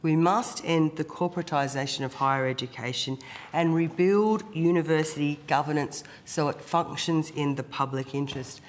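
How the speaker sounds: hoarse, rough-throated speech; croaky voice. Real, not acted. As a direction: speak through a sore, croaky throat. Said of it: "apologies once again for the croaky voice".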